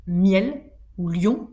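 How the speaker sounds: MIEL and LION each in one syllable; synérèse. Shown as a demonstration. Teacher showing one-syllable words, joined synérèse. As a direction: glide through MIEL and LION as single beats. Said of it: "ou en une seule syllabe".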